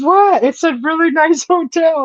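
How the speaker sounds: high, innocent what, then defending the hotel with a laugh; husband shrugging off her complaint, high and innocent; mock husband. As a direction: play the husband as baffled and innocent. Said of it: "And he goes".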